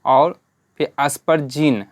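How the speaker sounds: aspergine said slowly, leaning on the N sound; stress on N. Shown as a demonstration. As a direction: draw out aspergine and land hard on the N. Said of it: "एन पे ज़्यादा जोर पड़ रहा है".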